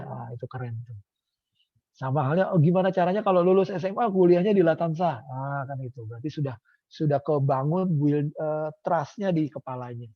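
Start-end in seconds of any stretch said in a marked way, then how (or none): 2.5-5.2 eager student. Acted.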